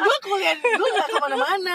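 real amused laughter; laughing. Real, not acted. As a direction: chuckle through the words in disbelief. Laughing at guide's assumption.

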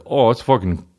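mock Irish buddy sliding into gibberish; imitated Irish accent. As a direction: imitate an Irishman nobody can understand. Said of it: "my Irish buddy was with me".

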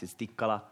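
Tikkala said clearly, TIK-ka-la, stress on the first syllable; Tikkala pronounced. Shown as a demonstration. Pastor teaching the church his surname, Tikkala said clearly. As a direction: spell out Tikkala evenly, first syllable leading. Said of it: "how the last name is pronounced".

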